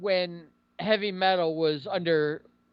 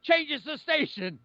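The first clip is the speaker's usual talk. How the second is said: joke punchline delivery; 5 semitones higher than usual. Retold or imitated. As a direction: deliver the old comic's punchline. Acting out a comedian's joke punchline.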